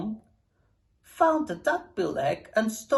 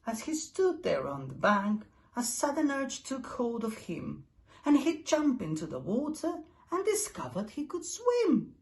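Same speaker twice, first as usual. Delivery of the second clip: ordinary delivery, nothing marked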